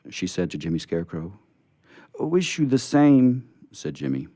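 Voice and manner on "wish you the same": slow, loud, high and tearful; choked sob. Acted. Scarecrow answering Betsy, choked with tears. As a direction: push it out through a sob. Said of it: "his voice was choked with sobs".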